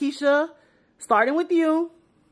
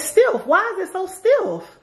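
laughing; 8 semitones higher, slower than usual. Real, not acted. Complaining about a stiff outfit.

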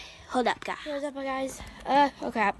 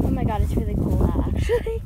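loud exclaiming; 7 dB louder, faster than usual. Real, not acted. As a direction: blurt it out loud. Repeats loudly in the cold.

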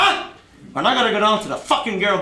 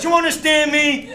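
shouted threat; 3 semitones higher than usual. Acted. Uncle shouting at the debtor to understand. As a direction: yell the question in his face.

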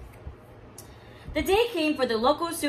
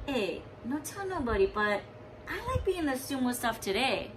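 whispered; 6 dB quieter than usual. Acted. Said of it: "whispered to the Manapua man".

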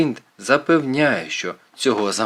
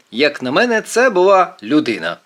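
higher, alarmed voice; mildly shaken, raised pitch; frightened; 6 semitones higher, 4 dB louder than usual. A narrator's reading. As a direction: say it with a scare in you. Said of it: "кажу я перелякано".

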